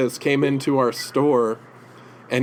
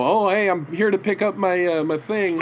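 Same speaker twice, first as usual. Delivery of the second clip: higher, louder quoted greeting; slightly put-on, pitched-up hello; imitated casual customer; 8 semitones higher, 4 dB louder than usual. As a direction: lightly act out a customer dropping by. Voices Bendis arriving at the store.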